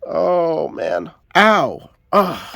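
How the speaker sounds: sharp real ow of pain; wincing from a cut. Real, not acted. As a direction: wince through the sting of a fresh cut. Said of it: "Yep, I just sliced my finger open".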